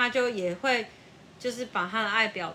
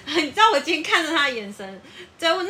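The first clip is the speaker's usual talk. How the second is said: ordinary talk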